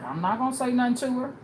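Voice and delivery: fast, loud guard; lightly voiced guard; guard's voice. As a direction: brush it off quickly, like a guard. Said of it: "is what the guard said".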